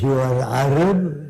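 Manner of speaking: put-on slow, halting Arab-accented English; a light Arab accent, slowed down; imitating broken Arab-accented English. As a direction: mimic the Arab leader's broken English, taking it slowly. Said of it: "That's the way he spoke".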